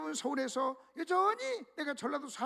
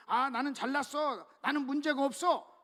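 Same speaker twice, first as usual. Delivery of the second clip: mock arrogant boast; 3 dB louder than usual. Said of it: "다른 사람을 무시하잖아요".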